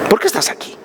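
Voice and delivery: breathy hushed whisper, close to the ear; a private whisper to each listener; whispered question. Acted. Preacher asks congregation intimately.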